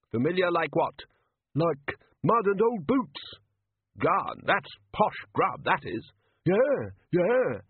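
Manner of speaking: a hint of ragged street talk; street beggars bantering. A narrator's reading. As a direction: swap it like old mates. Beggars bantering over food.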